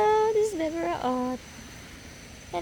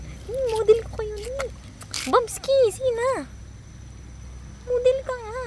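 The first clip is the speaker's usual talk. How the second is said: much higher cooing at the cats; 10 semitones higher, faster than usual. Real, not acted. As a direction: coo at your pets like babies. Baby talk to the cats.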